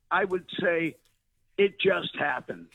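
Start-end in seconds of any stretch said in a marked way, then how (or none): 1.6-2.7 slow, deliberate reading of "It just happened."; slow epitaph. Shown as a demonstration. Telling the host his epitaph, slowly and deliberately. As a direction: carve each word of "It just happened." slowly, like an inscription. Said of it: "if on my tombstone I would inscribe as an epitaph".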